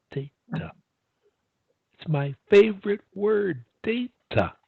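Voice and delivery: "data" split into two crisp, separated syllables; practice-phrase demo. Shown as a demonstration. Speech coach giving a client a daily line, deliberately articulated.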